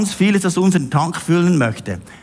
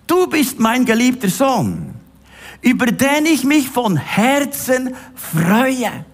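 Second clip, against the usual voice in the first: voice from heaven; 4 semitones higher, slower than usual. Acted. Voice from heaven quoted.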